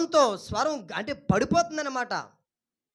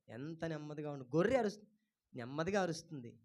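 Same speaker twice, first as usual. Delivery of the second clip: very soft, low voice; hushed and mild; gentle hush; 7 semitones lower, 13 dB quieter than usual. Shown as a demonstration. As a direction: drop right down to show gentleness. Describes how gently sheep cry.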